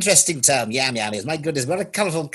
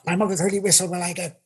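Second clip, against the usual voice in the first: clipped, pained classical actor; higher, clipped mock-thespian line; Johnny Gielgud; 4 semitones higher than usual. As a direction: recite it in a strained stage voice. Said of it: "It's all very clipped and painful".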